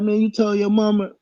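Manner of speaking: high disbelieving ask; incredulous question. Retold or imitated. Teller to the rival at the office, high disbelief. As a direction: ask it, amazed. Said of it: "So I was like".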